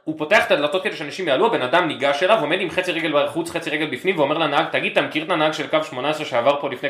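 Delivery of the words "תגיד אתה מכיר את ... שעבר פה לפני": mock indignant passenger; retelling the passenger's grievance; angry passenger. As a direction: bus passenger griping to the driver. Retold angry passenger to driver.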